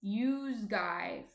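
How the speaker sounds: New Jersey plural you; a lightly demonstrated Jersey youse guys; Jersey accent. Shown as a demonstration. Teaching viewers the plural you, Jersey accent. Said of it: "a really Jersey thing to say".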